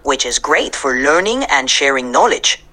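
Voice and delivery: put-on Puerto Rican accent with Spanglish; easygoing Puerto Rican accent, Spanish mixed in. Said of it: "I'll speak with a Puerto Rican accent and mix in some Spanglish".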